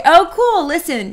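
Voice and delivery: high-pitched, keen reaction; upbeat interest. Acted. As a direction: respond brightly to good news. Modelling an interested reply.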